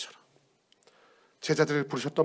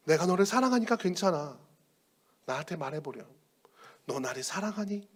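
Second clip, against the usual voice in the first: tender reassurance; 4 dB quieter than usual. Acted. Jesus tenderly reassures the failed Peter, softly. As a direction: comfort him gently.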